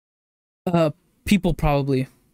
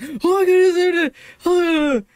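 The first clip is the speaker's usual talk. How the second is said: excited freak-out; 14 semitones higher, 4 dB louder than usual. Retold or imitated. Retelling the reaction at the movie, excited squealing. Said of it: "The excitement that came out of".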